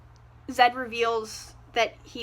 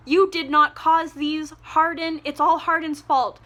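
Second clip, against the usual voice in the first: louder, insistent correction; exasperated; 3 semitones higher, 5 dB louder than usual. Acted. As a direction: tell her off with raised voice. Yelling at Tessa about Hardin.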